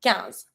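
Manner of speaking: Quinze as "kanz" with nasal vowel; Quinze, one syllable, nasal vowel then z. Shown as a demonstration. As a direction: say Quinze with plain k and silent final E. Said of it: "pronounce the I N like un".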